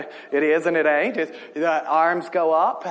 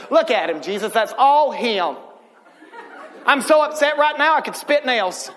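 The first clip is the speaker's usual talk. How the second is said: upset God; 3 semitones higher than usual. Retold or imitated. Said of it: "Can you see God in heaven getting upset?".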